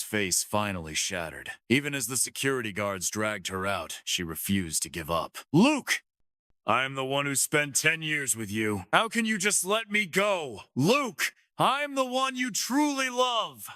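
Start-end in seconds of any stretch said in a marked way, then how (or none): 5.5-13.7 pitched-up woman yelling; shouting. A narrator's reading. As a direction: scream his name as she's dragged off. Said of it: "Her shouting turned into sobs".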